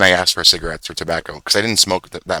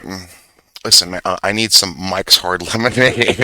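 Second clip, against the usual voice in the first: slow, louder cocky ask at the counter; a teen faking cool confidence to buy beer; confident; 4 dB louder than usual. Retold or imitated. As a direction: act older and sure of yourself, taking your time. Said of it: "I'd be very confident".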